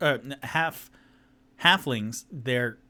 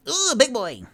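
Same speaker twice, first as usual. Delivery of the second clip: high impressed squeal; 13 semitones higher, 8 dB louder than usual. Acted. Halfling sees half-orc.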